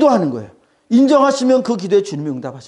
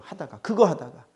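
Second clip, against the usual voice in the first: said under the breath, much softer; a quiet, dropping aside; softer repeat; 3 semitones lower, 6 dB quieter than usual. Real, not acted. Preacher repeats phrase quietly.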